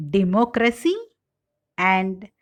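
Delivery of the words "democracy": democracy with MOC stressed; second-syllable stress in democracy. Shown as a demonstration. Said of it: "Stress shift in derived words".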